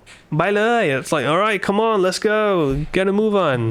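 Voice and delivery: high, pressing hurry-up; urgent. Shown as a demonstration. Teacher shows urgency when rushing friends along. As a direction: push them to get going now. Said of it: "Adding immediacy to the context".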